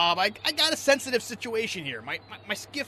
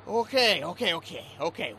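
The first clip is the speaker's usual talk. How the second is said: calming down; 2 semitones lower than usual. Acted. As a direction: talk him down gently. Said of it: "Take a deep breath".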